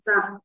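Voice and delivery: తా cut short, vowel not held. Shown as a demonstration. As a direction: say తా briefly, without stretching it. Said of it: "short గా పలకాలండి". (తా హ్రస్వంగా)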